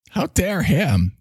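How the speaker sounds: hammed-up scolding; Greta Thunberg voice. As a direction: pull the words out in parody. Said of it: "Is this all she says?".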